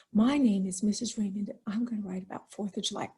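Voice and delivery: dull, low-energy recital; boring opening. Shown as a demonstration. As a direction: drone it like a boring first sentence.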